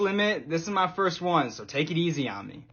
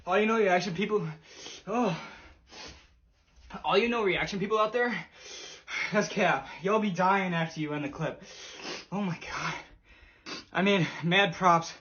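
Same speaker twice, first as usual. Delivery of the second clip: mouth full of hot food. Real, not acted. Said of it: "Oh, I can't even speak".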